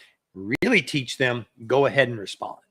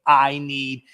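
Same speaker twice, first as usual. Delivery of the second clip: slow self-important brush-off; slower than usual. Pretend. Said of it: "look at the person ... and go".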